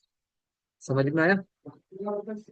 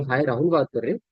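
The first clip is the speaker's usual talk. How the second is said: livelier, energized phone greeting; upbeat opener, moderately lifted; energetic. Shown as a demonstration. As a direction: greet the prospect with some energy. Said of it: "अगर आप energy में रहोगे".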